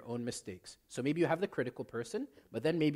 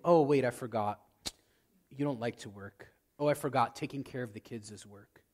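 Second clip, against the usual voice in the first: twist the knife with fake surprise; sarcastic mock; 4 semitones lower than usual. Mocking spouse in a quarrel.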